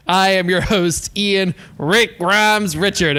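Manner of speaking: host intro in a Southern twang; slow Southern drawl on the name; Southern accent. Shown as a demonstration. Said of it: "you gotta say that with a Southern accent".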